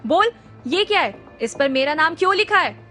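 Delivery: angry interrogating shout. Acted. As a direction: demand an answer. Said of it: "जोर से चिल्लाया".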